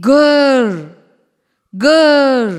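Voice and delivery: put-on playful growled grr for the kids; lion roar. Shown as a demonstration. Teacher shows children how a lion roars, mock growl. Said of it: "എങ്ങനെ lion കരയുന്നേ?".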